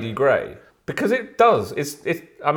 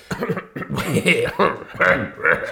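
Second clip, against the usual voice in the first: choking on a drink. Real, not acted. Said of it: "I was just choking on my Earl Grey".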